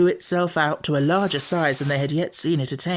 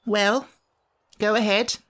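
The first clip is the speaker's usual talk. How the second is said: high, grumpy creature voice; a cross little sand-fairy; Samiad voice; 7 semitones higher than usual. Acted. Samiad character voice.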